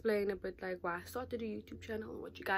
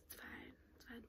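much softer resigned murmur; resigned aside; 19 dB quieter than usual. Real, not acted. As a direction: let it go under your breath. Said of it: "resigned muttered aside".

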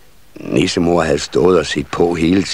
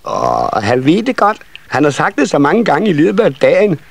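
put-on high, insistent child voice; tattling older children; 9 semitones higher than usual. A narrator's reading. Other children telling on the shy one, high and insistent. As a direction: protest in a high youngster's voice. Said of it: "sagde de andre unger".

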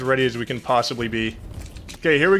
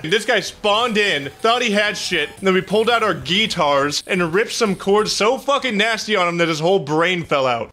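triumphant gloating; 6 semitones higher than usual. Real, not acted. Player bragging about the boss he just beat, high and elated. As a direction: relish retelling how you crushed him.

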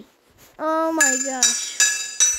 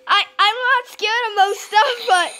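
scared; 3 semitones higher than usual. Real, not acted. Scared gamer pleading in horror game.

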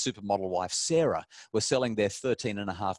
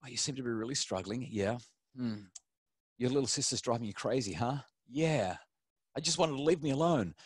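gentle empathetic parent; 2 semitones higher than usual. Shown as a demonstration. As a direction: soothe a frustrated child. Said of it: "it's so much more effective if we say".

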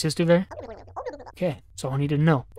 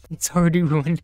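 laughing; faster than usual. Real, not acted. Laughing at his own flub.

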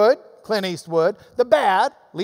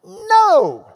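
loud, higher, forceful no; emphatic no; 8 semitones higher, 7 dB louder than usual. Real, not acted. Preacher correcting the email to his congregation, emphatic shouted no. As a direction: hammer it home.

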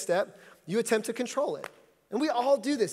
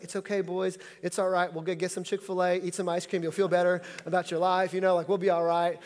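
comforting; 3 semitones lower than usual. Retold or imitated. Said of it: "It's like".

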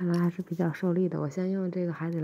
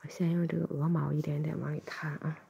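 gentle ear-cleaning whisper. Acted.

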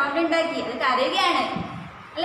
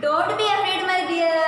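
reassuring; 4 semitones higher, much slower than usual. Acted. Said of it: "Minu said".

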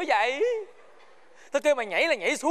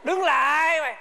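raised, higher voice ordering a stop; sharp halt order; 6 semitones higher, 3 dB louder, slower than usual. Acted. Guard stopping the bickering pair, sharp order. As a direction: call out the halt forcefully. Guard halts them again.

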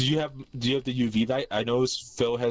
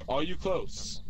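spirit box question; 6 semitones higher, much slower than usual. Real, not acted. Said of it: "I'm asking the spirit box questions now".

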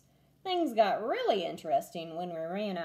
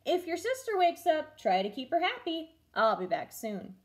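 calling out from the door; 6 semitones higher than usual. A narrator's reading. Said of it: "she called".

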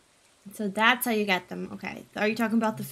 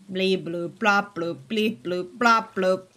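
mock angry gibberish; 4 semitones lower, slower than usual. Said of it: "my version of me being angry".

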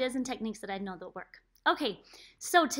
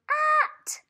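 bright at; 6 dB louder than usual. Shown as a demonstration. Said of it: "rev like a motorcycle".

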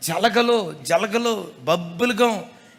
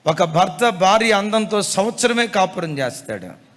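firmer, louder repeat with weight on భార్య; ఈ మాట గట్టిగా మళ్ళీ; said again loudly. Shown as a demonstration. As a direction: drive the point home. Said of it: "ఈ మాట మరలా గట్టిగా చెప్తాను".

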